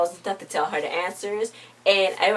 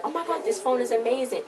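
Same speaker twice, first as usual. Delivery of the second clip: mock amazement; 6 semitones higher than usual. Voicing character amazed by phone.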